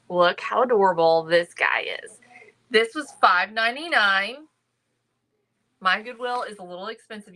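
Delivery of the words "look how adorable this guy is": breathy whisper of delight; gushing over the basket in a hushed whisper; excited whisper. Real, not acted. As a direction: whisper it like a secret treasure. Cooing over a cute basket.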